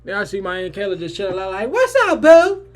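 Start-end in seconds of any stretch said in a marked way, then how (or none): 1.7-2.7 very high, loud squealed hello; overexcited greeting. Retold or imitated. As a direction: greet her at a hammed-up shriek. Acts out greeting his aunt.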